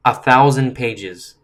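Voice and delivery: "thousand" hit loud and drawn out slowly; slow, emphatic weight on "thousand"; stress on thousand. Real, not acted. Host interrupts the letter to stress it to viewers, slow loud "thousand".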